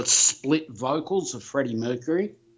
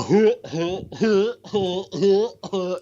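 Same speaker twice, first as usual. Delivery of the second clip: imitated background "huh, huh" noises; mock grunting huhs; 6 semitones higher, slower than usual. Imitating Vikings interrupting Doctor Earl, mock huh-huh noises. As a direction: repeat short raised huhs, imitating a noisy heckler. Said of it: "Vikings doing".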